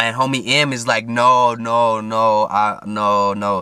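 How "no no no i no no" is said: put-on Somali-accented speech. Retelling a friend refusing to come along: imitating Homie M's Somali accent. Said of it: "that's how he talks too, 'cause he's from Somalia".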